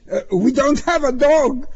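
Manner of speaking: high, hesitant little voice; meek, high-pitched objection; weak protest. A narrator's reading. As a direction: answer feebly, intimidated. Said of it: "Pruskin said weakly".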